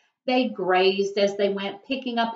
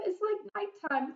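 crying out; 10 semitones higher, 9 dB quieter than usual. A narrator's reading. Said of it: "cried the sea urchin".

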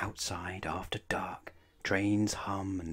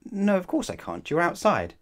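put-on scornful child; 10 semitones higher, 8 dB louder than usual. Anna answers Nat scornfully.

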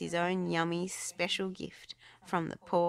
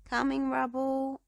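calling; 9 semitones higher, 7 dB louder than usual. A narrator's reading. Ryder inviting Rubble.

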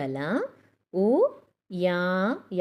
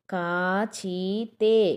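drawn-out reading; much slower than usual. Shown as a demonstration. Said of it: "ఇవన్నీ ఒత్తి పలికినట్టు పలకాలన్నమాట".

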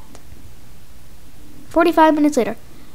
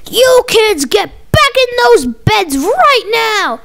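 stern yell; 4 semitones higher, much slower than usual. Acted. Parent sending kids to bed.

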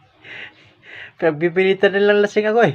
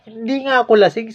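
higher, pressing protest; insistent denial; 6 semitones higher than usual. Retold or imitated. Told again he's drunk, high pushing denial. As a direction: push back hard on the guard.

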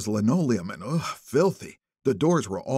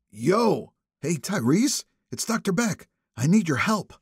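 phone call; 6 semitones higher than usual. A narrator's reading.

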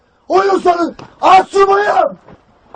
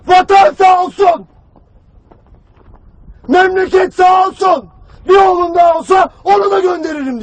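imitated bereaved father; 2 semitones higher than usual. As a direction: proclaim it as the grieving father would. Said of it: "Ama ağzında bir cümle".

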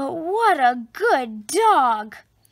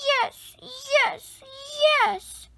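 eager yes; 10 semitones higher, slower than usual. A narrator's reading. Rabbit eagerly nods.

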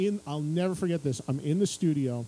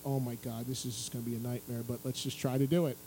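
dreading nightmare; 7 semitones lower, 5 dB quieter, faster than usual. Retold or imitated. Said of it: "I'm like".

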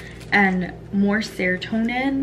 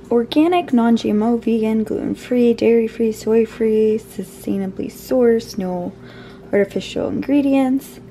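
excited; 6 dB louder than usual. Real, not acted. Excited list of product claims.

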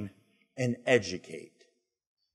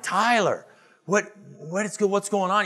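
higher, fed-up father answering; a dad pulled out of a meeting, exasperated; 8 semitones higher than usual. Retold or imitated. Dad answering his son's repeated calls, raised and exasperated. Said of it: "and I'm like".

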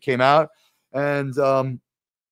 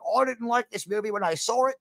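mock surprised admission; 7 semitones higher than usual. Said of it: "he was like".

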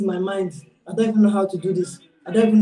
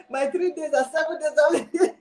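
laughing; 5 semitones higher, slower than usual. Real, not acted. Laughing while speaking.

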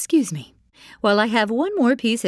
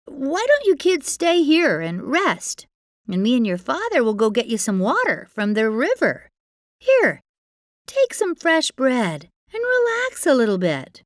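much higher, sugary coaxing; syrupy high stepmother voice; falsely sweet stepmother; 7 semitones higher, 4 dB louder than usual. Acted. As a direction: fake kindness hiding her plan. Stepmother feigning kindness.

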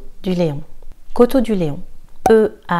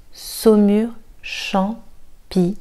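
slow whisper; 2 semitones higher, much slower than usual. Shown as a demonstration.

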